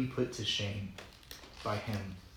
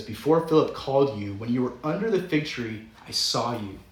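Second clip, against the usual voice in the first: sarcastic; 5 dB louder than usual. Retold or imitated. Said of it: "this is all sarcastic".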